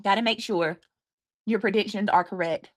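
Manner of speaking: talking while chewing; mouth full. Real, not acted. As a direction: speak through a mouthful of food. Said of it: "You're chewing, aren't you?".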